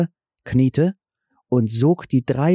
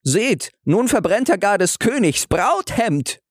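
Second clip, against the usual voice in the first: higher, indignant grumble; grumbling servants; 9 semitones higher than usual. A narrator's reading. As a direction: complain like resentful servants. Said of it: "fingen wieder an zu murren".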